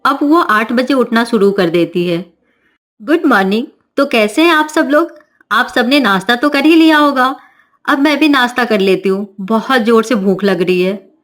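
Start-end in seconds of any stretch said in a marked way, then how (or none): 3.0-11.1 put-on carefree young bride. Navya breezes in late.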